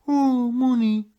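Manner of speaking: mock crying manager. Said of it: "Oh, just crying".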